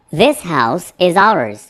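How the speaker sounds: This phone is mine very slow and clear; slow teaching read. Shown as a demonstration. Teacher reading a model sentence slowly for students. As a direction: spell it out slowly for the learners. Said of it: "slow model sentence".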